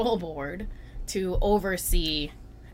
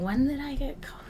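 surprised; 8 semitones higher, 4 dB quieter than usual. Retold or imitated. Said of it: "And I was like".

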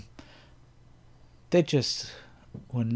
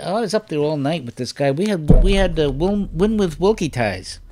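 excited conventioneer voice, higher and louder; quoting Jack Burns; 6 semitones higher, 8 dB louder than usual. Retold or imitated. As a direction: gush about the all-nighter. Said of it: "And he said".

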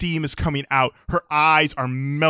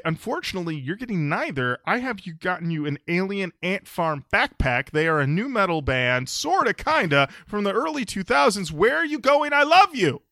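mock dad announcement; 4 semitones higher than usual. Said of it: "you're gonna say".

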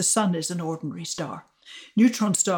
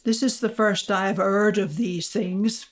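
put-on lightly done Yorkshire accent; a hint of a Yorkshire voice. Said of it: "in his Yorkshire accent".

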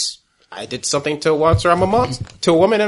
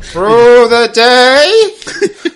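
laughing; 8 semitones higher, 8 dB louder, much slower than usual. Real, not acted. Joking along, laughing.

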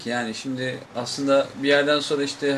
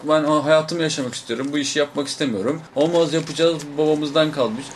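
a slightly louder mock argument between brothers; brothers arguing; 4 dB louder than usual. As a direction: play both brothers bickering, a little louder. Two brothers arguing, acted out. (kardeşler arasında hafif yüksek sesli taklit tartışma)

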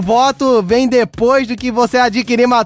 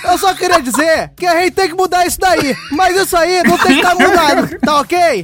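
Bolsonaro with lisp; 3 semitones higher than usual. Acted. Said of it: "Trinta segundos de língua presa".

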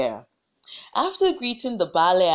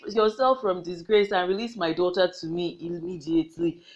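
mocking. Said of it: "started to mock the Balogun".

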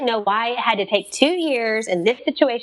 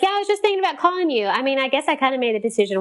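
eager rush; 5 semitones higher, much faster than usual. Retold or imitated. Eager reply to caseworker's call.

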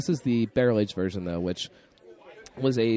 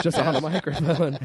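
higher, laughing through it; 8 semitones higher, 4 dB louder than usual. Real, not acted. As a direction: giggle as you say it. Laughing reply.

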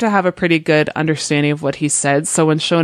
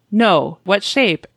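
parrot quote; 4 semitones higher, much slower than usual. Retold or imitated. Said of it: "And he says".

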